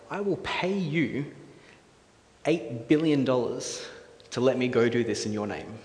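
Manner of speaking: lightly voiced eager deal-maker; persuasive schemer. Acting out Haman pitching to the king.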